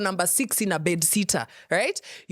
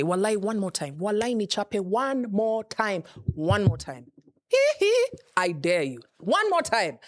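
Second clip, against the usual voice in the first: defiant donkey. Pretend. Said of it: "This is what the donkey would say".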